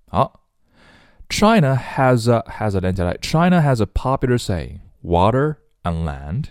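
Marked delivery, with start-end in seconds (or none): 5.0-6.5 "Water and land" slowly, each word apart; separated words. Shown as a demonstration. Teacher reading a saying, slow and separated. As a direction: space out "Water", then "and land". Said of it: "把这几个词都分开".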